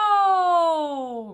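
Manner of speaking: loud high meow, sliding down; cat meow. Shown as a demonstration. Vocal coach demonstrates a loud falling cat meow. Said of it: "play with the shape of that me".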